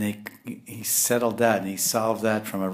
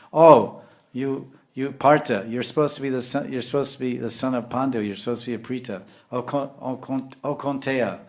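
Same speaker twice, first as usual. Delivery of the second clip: raised, loud rebuke of a disciple; mock scolding; 3 semitones higher, 4 dB louder than usual. Krishna scolding Arjuna for lamenting, stern rebuke. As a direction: scold him like a stern teacher. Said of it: "he criticized him".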